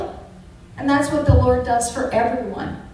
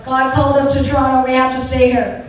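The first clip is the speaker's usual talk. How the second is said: louder, faster insistence; insistent; 6 dB louder, faster than usual. Retold or imitated. To her husband in the small house, insisting loudly. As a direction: press the point firmly.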